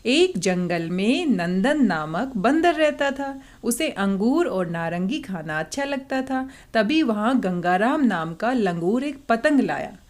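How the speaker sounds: सही उच्चारण के साथ पढ़ना; correct nasal reading. Shown as a demonstration. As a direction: read again with every anusvara clearly sounded. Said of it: "अब बिल्कुल सही लग रहा है".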